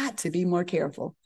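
hushed whisper to yourself; whispered aside. Retold or imitated. Intern caught out by the attending, whispered to herself. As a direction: mutter it under your breath.

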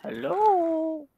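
calling out. Real, not acted. Calling out to other player.

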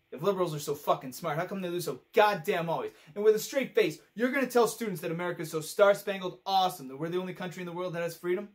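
exasperated rant. Acted. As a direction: throw it out as an angry, incredulous question. Acted monologue, exasperated political rant.

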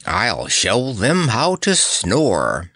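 slow, lilting amusement; amused, unhurried boast; chuckling. Acted. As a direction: draw it out with playful relish. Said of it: "chuckled Nick".

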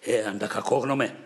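a touch of anger in the retort; mildly angry comeback; angry reply. Acted. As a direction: snap back at the insult, understated. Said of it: "Όλο θυμό του απειλογήθηκε".

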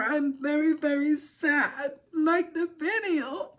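mock crying. Begging for likes, fake crying.

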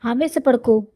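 hushed, breathy whisper to calm her. Acted. Husband whispering to his upset bride in bed. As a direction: whisper it close, as if not to be overheard.

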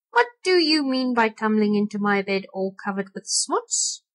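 gruff rat voice, teeth chattering; a lightly voiced cross old rat; twitchy squeaking rat voice. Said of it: "chattering his teeth".

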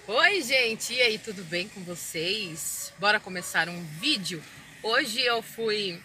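loud, bright vlogger greeting; loud vlog intro in the car. Acted. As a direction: welcome the viewers with energy.

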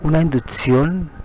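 measured meditation voice with long pauses; guided meditation. Acted. Guía una meditación de relajación. (meditación guiada, pausada y tranquila)

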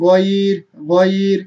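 thick final r in গয়ির; heavy R. Shown as a demonstration. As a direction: hold the glide in গয়ির, close on a heavy r. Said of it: "রটা মোটা করে পড়তে হবে". (গয়ির-এর র মোটা করে)

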